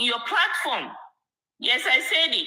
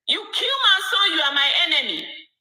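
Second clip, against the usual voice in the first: defiant father; 5 semitones higher than usual. Retold or imitated. Voicing the father's defiant reply.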